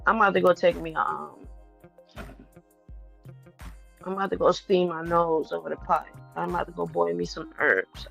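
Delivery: tight-chested and short of breath; soft, strained, can't quite breathe; wheezy voice. Real, not acted. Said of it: "My chest feeling tight".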